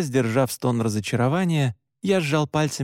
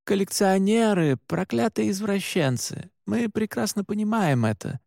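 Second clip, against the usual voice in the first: higher-pitched, irritated retort; unrestrained outburst; 6 semitones higher than usual. A narrator's reading. Oscar answers Allan, no longer holding back, irritated. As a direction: vent frustration without much volume. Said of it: "Оскар тоже не стал сдерживаться".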